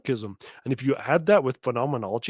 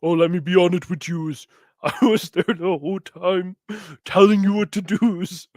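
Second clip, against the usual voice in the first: lightly voiced cricket conscience, a bit louder; mock Jiminy Cricket voice; 4 dB louder than usual. Mocking host voices the cricket at viewers, lightly done. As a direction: play a smug little cricket. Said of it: "Voice of Cricket".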